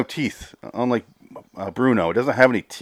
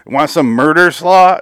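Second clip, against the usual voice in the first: mocking pun; 6 semitones higher, 7 dB louder, slower than usual. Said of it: "You might as well say".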